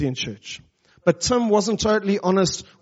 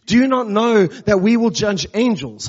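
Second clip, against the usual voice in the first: "Do you not know" pressed a little louder and higher, cutting; biting rhetorical question; 3 semitones higher, 5 dB louder than usual. Acted. Paul calling out the Corinthian church, biting and pointed. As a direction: call it out like a stinging rebuke. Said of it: "bitingly calls out to them".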